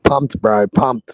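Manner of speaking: loud, pumped-up answer; hyped. Real, not acted. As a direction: shout it out, fired up. Hyped fan answers on stream.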